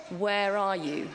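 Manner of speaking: slow, gentle calling out; loving call. Acted. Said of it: "he calls out to us".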